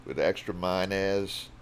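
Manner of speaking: a hint of a New Orleans ad lady; lightly voiced commercial lady, slow on "extra mayonnaise"; Time Saver lady. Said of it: "Like the lady from the Time Saver commercial".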